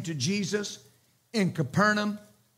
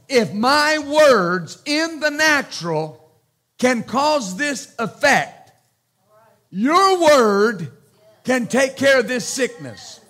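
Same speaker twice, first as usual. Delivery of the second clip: building preaching; 3 semitones higher, 4 dB louder, slower than usual. Real, not acted. Preacher pressing the centurion's logic on the church, building emphatic. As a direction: lean hard into each word and build. Preacher driving the point home.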